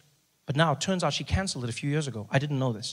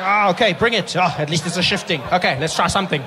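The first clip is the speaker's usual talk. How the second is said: doctor making do; 5 semitones higher, 7 dB louder than usual. Retold or imitated. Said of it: "There's the doctor".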